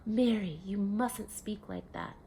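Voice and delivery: a hint of a stern father scolding; sharply. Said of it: "her father had said sharply".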